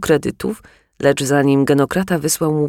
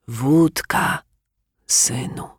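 sighing; 3 semitones lower, much slower than usual. Acted. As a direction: sigh it out wearily. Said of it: "westchnął brodacz".

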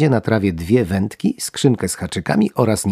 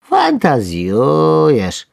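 slow, high yawning worm; 7 semitones higher, 5 dB louder, much slower than usual. Acted. Worm yawns at his friend's panic. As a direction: stretch it into a yawn. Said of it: "ziewnął ktoś".

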